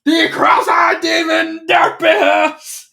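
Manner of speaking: high, very slow, booming announcer intro; arena announcer. Retold or imitated. Announcer introducing Derpy to the crowd, booming. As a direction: drag out the name like a ring announcer.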